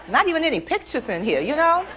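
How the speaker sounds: imitated childish outrage, stretched words; incredulous child. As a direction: protest like a baffled child. Child baffled by mother's book.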